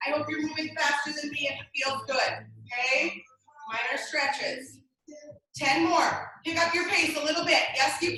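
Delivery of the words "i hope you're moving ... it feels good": talking while exercising; breathy from jumping jacks; doing jumping jacks. Real, not acted. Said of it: "I'm moving slowly".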